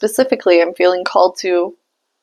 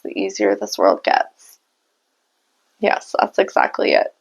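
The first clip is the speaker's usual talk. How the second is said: whisper; 3 dB quieter than usual. Real, not acted. Hearing a spirit message.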